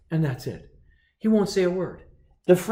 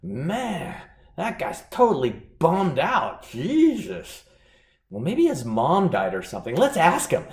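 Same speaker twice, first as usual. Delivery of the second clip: concerned American diners; 3 semitones higher than usual. Retold or imitated. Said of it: "The Americans will go".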